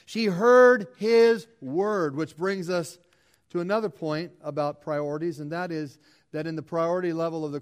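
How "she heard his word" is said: "word" drawn out slowly and louder; stress on word. Shown as a demonstration. Preacher to congregation, stressing "word" slowly and loud. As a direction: lean hard on "word", very slow. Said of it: "Notice here the emphasis on the word".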